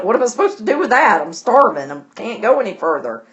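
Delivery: a touch of Jane's outraged disbelief; indignant disbelief. Retold or imitated. Jane protests to the suspicious servant, indignant. Jane pleading, refused a penny.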